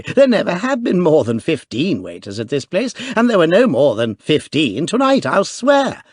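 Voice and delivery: put-on young duke insisting, excited; excited cry. A narrator's reading. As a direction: insist breathlessly, boyish. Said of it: "cried the duke excitedly".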